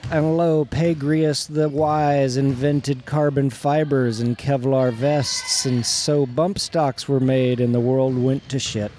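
preaching. Acted. Mock scripture reading.

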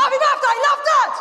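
high shouty caps voice; dad's card. Retold or imitated. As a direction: read it out like capital letters. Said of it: "he's like".

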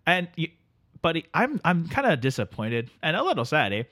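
sleepy Canadian drifter greeting his pal; Canadian accent. Acted. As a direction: play the neighbourly Canadian couch guest. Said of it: "Our friend from the north".

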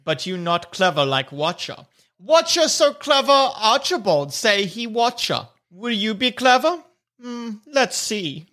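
boastful kobold in pidgin; Watcher the kobold. Acted. Watcher boasts of cleverness to the challengers, self-important kobold. Game master plays Watcher.

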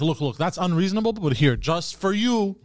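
lightly acted salesman, stretching the words; car salesman pitch. Car seller offering a customer a deal, salesman pitch.

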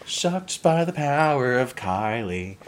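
slow high laughing proclamation; dramatic laughing. Real, not acted. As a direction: announce it grandly through laughs.

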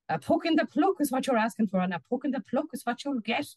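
high-pitched scolding threat; threatening wife. Acted. Fat woman threatening her husband up the tree, scolding. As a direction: promise a beating with relish.

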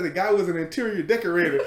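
giggling through the line; can't hold the laugh in; telling the mistaken punchline while laughing. Retold or imitated. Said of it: "he said".

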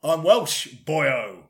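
put-on Welsh lilt; badly faked Welsh accent, drop on the last word; mock Welsh accent. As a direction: play at being Welsh. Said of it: "as you can hear, Welsh".

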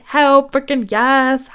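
slow, high, elated Hell frickin' yes; drawn-out celebratory cheer. Pretend. Coach showing how to celebrate, elated and slow. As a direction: savour the win, stretching each word.

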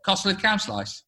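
Stoke accent. Shown as a demonstration. Teaching the host bit by bit, Stoke accent. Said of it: "Just do it bit by bit".

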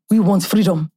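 Nigerian film-style declaration; movie Nigerian accent. Shown as a demonstration. Demonstrating for a friend, movie Nigerian accent. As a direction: give it the Nollywood Nigerian accent. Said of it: "doing that movies Nigerian accent".

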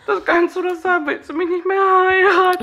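high squeaky mock plea; mock whiny fiancé. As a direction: play the sulking fiancé. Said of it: "Reaktion vom Igel?".

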